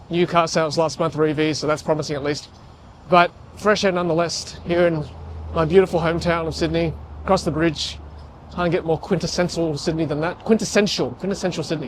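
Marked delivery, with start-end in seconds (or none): 3.1-11.9 talking over wind noise; in strong wind. Real, not acted. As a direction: voice battered by wind. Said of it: "It's hard to talk in the wind".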